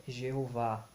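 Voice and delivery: "Jeová" sounded out slowly, final A open; pronunciation demo. Shown as a demonstration. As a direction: say "Jeová" slowly, ending on a clear A.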